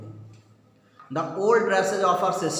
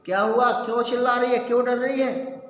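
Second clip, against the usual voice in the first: higher, quick scolding questions; mild mock shout; 6 semitones higher, faster than usual. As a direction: fire off the questions as an alarmed father. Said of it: "चिल्ला के पूछा".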